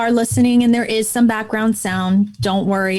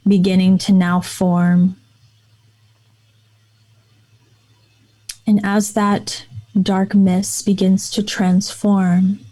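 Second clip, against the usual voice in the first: calm, even voice with long pauses; guided meditation. Real, not acted. Hypnotherapist leading podcast listeners through breathing and imagery, guided meditation voice. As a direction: guide them gently inward, letting each phrase settle.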